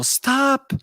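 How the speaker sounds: high-pitched mock shout to halt everything; drawn, high yell at moderate volume; imitated yelling. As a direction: imitate someone calling out down a hall. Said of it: "there's somebody's yelling in the hall".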